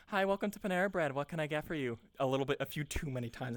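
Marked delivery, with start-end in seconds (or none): 0.1-2.0 quick, toneless service recital; soulless scripted greeting. Retold or imitated. Imitating a Panera worker greeting customers, mechanical. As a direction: rattle off the greeting on autopilot. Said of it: "I've heard so many people do that".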